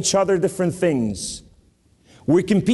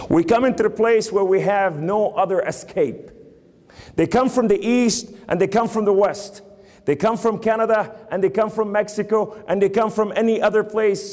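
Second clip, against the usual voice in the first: higher-pitched, driving sermon delivery; urgent preaching; 5 semitones higher than usual. Acted. Preacher warning the church about the nation, urgent preaching. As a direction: build a rhythmic list from the pulpit.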